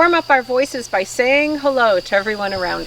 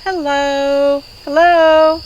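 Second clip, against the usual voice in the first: nicely; 5 semitones higher, 5 dB louder, much slower than usual. Shown as a demonstration. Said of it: "Let's say hello as nicely as we can".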